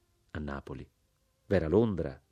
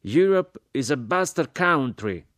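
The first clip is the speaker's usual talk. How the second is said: higher, slow, disdainful pronouncement; colonel's scorn; 8 semitones higher, 5 dB louder, slower than usual. Acted. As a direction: hand down the verdict slowly, with contempt. Colonel scorns Europe at dinner.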